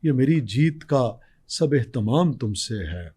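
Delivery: nazm recitation. Acted.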